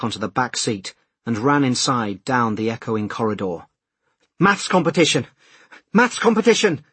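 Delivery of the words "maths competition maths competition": high, urgent shout, rising on the repeat; yelling. A narrator's reading. Late man running down a corridor, yelling for directions. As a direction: yell it out to every passer-by. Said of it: "he yelled at anyone he passed".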